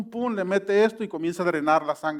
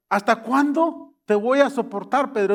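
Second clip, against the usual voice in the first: exasperated teacher, pitch raised; raise the tone; 3 semitones higher than usual. Shown as a demonstration. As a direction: lift your voice up on it. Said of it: "Sube de tono".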